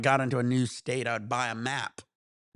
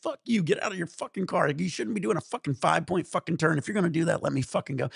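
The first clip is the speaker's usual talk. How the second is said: heated replay of a road-rage rant, higher pitch; retold angry cursing; 4 semitones higher than usual. Storyteller replays cursing at the blocking driver, irritated. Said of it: "I started cursing at him".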